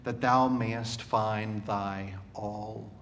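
measured, solemn reading of a hymn poem; poem recitation. Acted.

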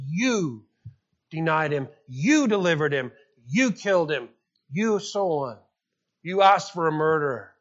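YOU hit hard at the start of each accusation; emphatic you. Shown as a demonstration. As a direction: point the finger with every You. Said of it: "they're plural and very emphatic".

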